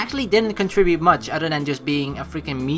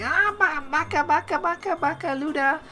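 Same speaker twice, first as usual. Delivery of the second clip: high-pitched mock tsundere chant; 11 semitones higher than usual. Player mimicking how tsunderes scold Luda, high-pitched mock tsundere. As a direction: imitate a flustered tsundere, pitched way up. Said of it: "sometimes they're all like".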